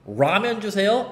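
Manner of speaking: "라면" met Engelse R ingezet; English R sound. Shown as a demonstration. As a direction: krul de tong bij "라면". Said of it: "R 발음".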